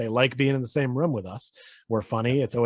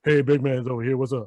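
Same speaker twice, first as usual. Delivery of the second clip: lightly put-on deeper greeting; deeper Big Man voice. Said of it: "be deeper voice".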